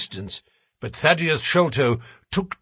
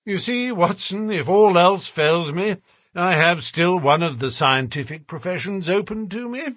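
amused, higher aside to a friend; laughing; 6 semitones higher than usual. A narrator's reading. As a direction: say it with a touch of amusement. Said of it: "said Holmes, laughing".

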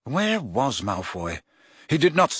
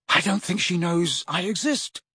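desperate; 5 semitones higher than usual. A narrator's reading. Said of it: "said Ron with a desperate gesture".

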